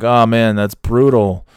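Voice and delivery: imitated sympathetic reaction; mock sympathy. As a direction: play at showing empathy. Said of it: "show some empathy".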